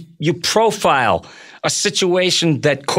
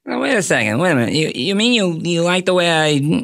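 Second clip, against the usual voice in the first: lightly voiced talk-show host playing a touchy mobster; stammering mock challenge in a comic host's voice; Jay Leno. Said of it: "the deep Jay Leno voice".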